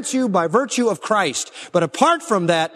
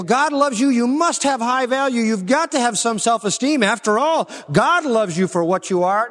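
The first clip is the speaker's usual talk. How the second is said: mock-cheerful, pitched higher, parroting a shallow saying; sing-song mimic of feel-good preaching; mocking quote; 5 semitones higher than usual. Mocking what people tell others.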